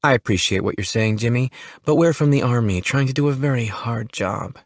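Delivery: calm him down sweetly; a touch of sweet persuasion. Acted. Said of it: "her voice sweet and calming".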